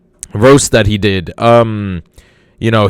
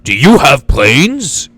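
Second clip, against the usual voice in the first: George Carlin riff. Retold or imitated. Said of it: "That, that's how he talked".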